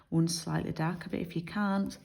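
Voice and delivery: speaking through a yawn. Real, not acted. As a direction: let a yawn stretch the words. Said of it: "excuse me, I'm yawning".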